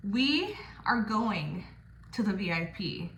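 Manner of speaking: seductive slow tease. Retold or imitated. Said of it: "and I was like".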